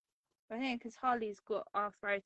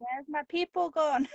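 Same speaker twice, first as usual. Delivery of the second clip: high, slow lost-puppy voice; whiny dog voice; 6 semitones higher, 8 dB louder than usual. Pretend. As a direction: plead slowly like a lonely dog. Voicing the lonely dog.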